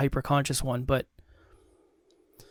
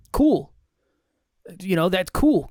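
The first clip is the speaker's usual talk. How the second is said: mock cheer; 3 semitones higher, 4 dB louder, slower than usual. Real, not acted. Mock cheer at no flat tire.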